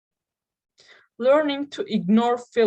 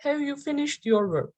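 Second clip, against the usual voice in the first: higher-pitched "Have you finished your work?"; stressed key word; 4 semitones higher than usual. Shown as a demonstration. Teacher demonstrating stress with an example question, higher-pitched. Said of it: "highlight a word, you should raise".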